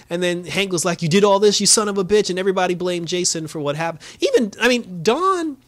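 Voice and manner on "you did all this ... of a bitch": mock angry. Hank accusing Jason.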